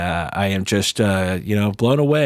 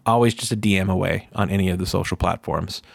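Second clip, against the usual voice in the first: right in your ear. Retold or imitated. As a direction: speak close and gentle to one listener. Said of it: "I ended with something like".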